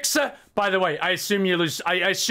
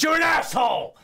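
mock insult yell; 6 semitones higher than usual. Insulting viewer's settings.

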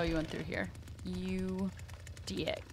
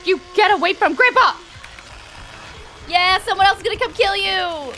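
loud, higher, fast shout; playful yell; 8 semitones higher, 7 dB louder than usual. Real, not acted. Killer yells at survivor near Grandpa, loud. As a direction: shoo them off Grandpa.

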